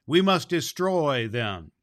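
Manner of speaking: stern vow. Acted. Fairy prince vowing war to the council, slow and firm. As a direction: declare it firmly, each word weighed. Queen Zerline repeats vow.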